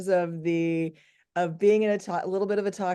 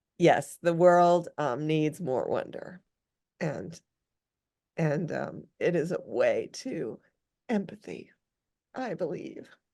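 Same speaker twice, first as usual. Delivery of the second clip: voice strained, fighting to keep from crying; 3 semitones lower than usual. The speaker, admitting they are trying not to cry again, is holding back tears. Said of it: "I'm trying not to cry again".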